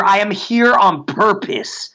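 slow, deliberate declaration; meant affirmation. Shown as a demonstration. Coach giving listeners a powerful confession, slow affirmation. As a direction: state it slowly, like you mean it. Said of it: "say with some pitch and tone".

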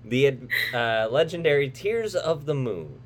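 dramatic trailer narrator voice; movie trailer read. Acted. Reads the movie synopsis.

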